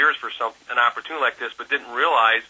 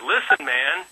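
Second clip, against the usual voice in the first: put-on English accent; 3 semitones higher, slower than usual. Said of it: "in his English accent".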